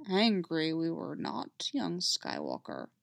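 slow, low Yoda voice; measured, patient old master. Acted. Yoda correcting young Skywalker, slowly. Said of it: "Yoda says slowly".

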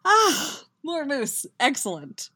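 delighted. Acted. Delighted at dessert arrival.

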